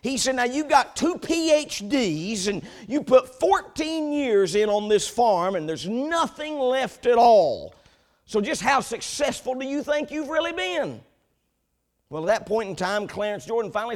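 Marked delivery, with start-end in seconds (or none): 0.4-11.0 haughty. Retold or imitated. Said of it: "in a haughty voice".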